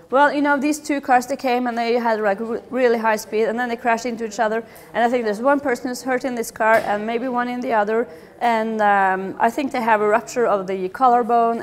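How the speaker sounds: wordy, rambling bystander explaining; rambling witness. Retold or imitated. Bystander over-explaining a car crash, rambling. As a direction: pile on the words like a flustered witness. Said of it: "using a lot of words".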